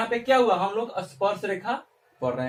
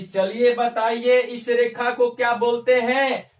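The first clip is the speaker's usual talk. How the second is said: asking examiner; 2 semitones higher, 5 dB louder, slower than usual. Retold or imitated. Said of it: "अगर कोई पूछ दे कि".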